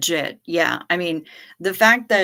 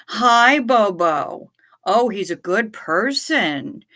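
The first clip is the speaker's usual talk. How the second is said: cooing to a dog; 3 semitones higher, 5 dB louder, slower than usual. Acted. Greeting the dog.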